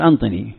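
أنطني with a clear n where أعطني has ain; Tayy dialect word. Shown as a demonstration. Teacher showing how Tayy say give me, nun for ain. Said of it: "يبدل العين نونا".

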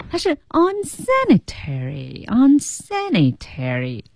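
slow, careful unsanitary, stretched out syllable by syllable; slow teaching read of unsanitary; careful pronunciation. Shown as a demonstration. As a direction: spell out unsanitary slowly, every syllable clear. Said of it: "注意这个unsanitary的读音".

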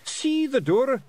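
very high, loud Scots order; commanding. A narrator's reading. Pictsie chief commanding the girl to find the exit, forceful. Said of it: "Rob Anybody commanded".

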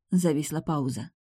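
usual speaking voice

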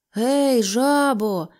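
loud call across the road. A narrator's reading. Mole and Rat calling to Toad for help, loud call. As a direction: shout to get his attention. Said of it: "гукнули вони".

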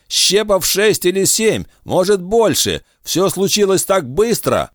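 high, urgent voice; shaken boy. A narrator's reading. Ruben explains the ambush to Rick, high and urgent. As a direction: rush it out, still rattled.

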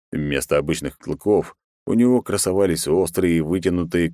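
usual speaking voice

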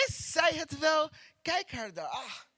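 mock scornful doubt, starting in a half-shout; doubting spouse. Preacher imitates a hesitating husband eyeing his wife, scornful. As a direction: scoff at her like a regretful husband. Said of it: "beginnen ze te aarzelen".

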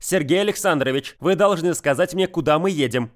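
firm, earnest demand; serious. Acted. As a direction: insist with full seriousness. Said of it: "со всей серьёзностью заявила она".

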